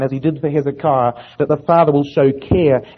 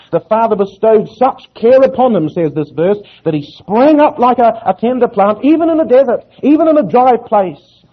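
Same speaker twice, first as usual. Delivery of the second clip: raised, ringing sermon delivery; impassioned preaching; 4 semitones higher, 4 dB louder than usual. Real, not acted. Preacher telling the congregation of obscure Nazareth, impassioned. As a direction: preach it with rising conviction, pitched up.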